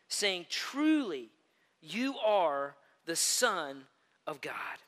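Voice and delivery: slow, solemn reading of the verse; scripture reading. Acted. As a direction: read it slowly and reverently. Reads scripture aloud.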